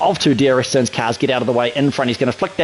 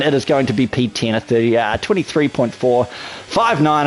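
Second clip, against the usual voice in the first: breathless after fast commentary; short of breath, puffing between words; 2 semitones lower than usual. Real, not acted. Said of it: "I'm a little bit out of breath".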